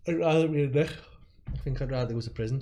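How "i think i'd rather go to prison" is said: fast words through a yawn. Real, not acted. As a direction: talk while yawning. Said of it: "Sorry for yawning there".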